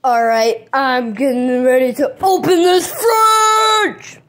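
loud slow goofy shark; shark puppet voice. Acted. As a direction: drag it out big and silly. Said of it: "I'll do the shark puppet voice".

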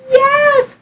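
high, loud yes; a bright, eager cry of welcome; witch's cry. Acted. Witch welcoming the dog aboard, high loud cry. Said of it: "cried the witch".

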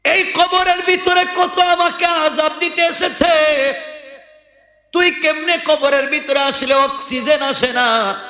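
high chanted plea; tearful calling out. Acted. Dead man tearfully calls to the bird in his grave, high chanted lament. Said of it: "চোখের পানি ছেড়ে ডাক দিয়ে বলে".

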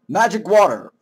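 full-voiced, rising-and-falling exclamation; announced exclamation. Announcing the magic item, full-voiced exclamation. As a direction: proclaim it with a flourish.

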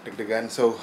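winded after climbing stairs; breathless, still recovering from the climb; out of breath from stairs. Real, not acted. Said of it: "capek abis naik tangga".

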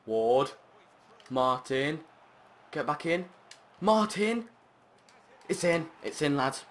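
loud high cheer as it goes in; rising yell of joy; excited shouting. Real, not acted. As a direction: call the play then celebrate. Scoring an equaliser.

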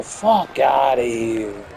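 slow mock Italian accent; a hammed-up Italian gangster accent. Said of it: "My strongest Italian accent".

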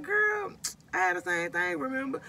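high, chummy mock doctor voice; imitating her female doctor reassuring a patient, pitched high. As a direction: voice the friendly doctor, pitched well up. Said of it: "she be like".

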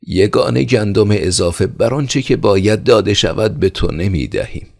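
loud, high defiant yell; shouting. Acted. Hot-blooded son shouting refusal at the steward. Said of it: "فریاد زد و گفت".

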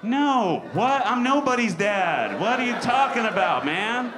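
high, loud shocked protest; like he's been insulted to his face; indignant disbelief. Retold or imitated. Comic answering the bagger who thought he was a dad, loud shocked protest. Reaction to being called dad.

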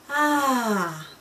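lightly done snooty French "ah, ah"; a hint of a snooty French narrator sighing; mild French accent, nose in the air. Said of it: "said the snooty French narrator".

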